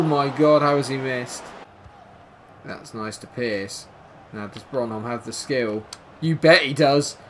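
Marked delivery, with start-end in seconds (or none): none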